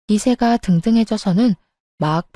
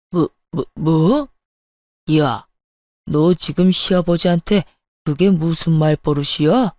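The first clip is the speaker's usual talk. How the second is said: lower, outraged sputter; sputtering father-in-law; 5 semitones lower than usual. Acted. Father-in-law outraged at daughter-in-law, lower sputtering. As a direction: choke on outrage then bark.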